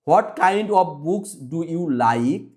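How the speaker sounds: slow reading with kind stressed. Shown as a demonstration. Teacher models the question for pupils, slow with stress on kind. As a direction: lean on kind, reading slowly. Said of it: "এখানে kind হচ্ছে".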